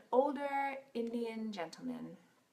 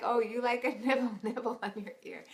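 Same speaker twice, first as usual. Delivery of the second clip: lightly voiced counselor through laughter; mocking the counselor; 4 semitones higher, 3 dB louder than usual. Wife mimicking the counselor to her husband in the car, laughing. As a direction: parrot his line while giggling. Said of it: "I'm like".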